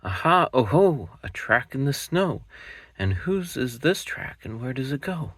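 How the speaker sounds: a cub sure he's found the mouse; Gruffalo's child. Acted. Child finds a track.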